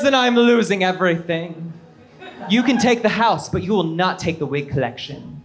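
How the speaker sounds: lightly voiced soap diva; grand soap opera melodrama; Joan Collins voice. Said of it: "in the voice of Joan Collins from Dynasty".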